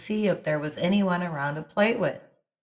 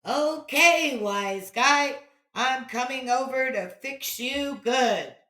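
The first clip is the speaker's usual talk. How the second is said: echo; 7 semitones higher than usual. A narrator's reading. Echo returning the threat, distant. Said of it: "was the reply".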